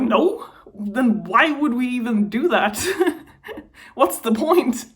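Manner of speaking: half laugh, half cry; incredulous laugh breaking through tears; teary disbelieving laugh. Real, not acted. Retelling reply, laughing through tears.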